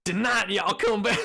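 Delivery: put-on southern accent. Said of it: "in the middle of a southern accent challenge".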